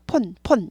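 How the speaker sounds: 폰 clipped to one plain o, mimicking; 폰 with p and a single vowel; imitated Korean-style 폰. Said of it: "따라 하시더라고요".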